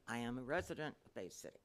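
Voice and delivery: soft and away from the mic; speaking too softly to be heard; too quiet. Real, not acted. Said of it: "could you speak up a little bit".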